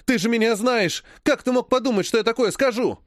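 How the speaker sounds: cheered up and pushing his point; eager. Acted. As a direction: jump in, thrilled to be backed up. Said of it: "воодушевился Владик".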